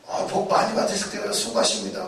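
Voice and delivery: breathy unvoiced polite greeting; whispered politeness. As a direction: whisper the church pleasantries. Quoting polite churchgoers. (교인들의 공손한 인사를 속삭이듯)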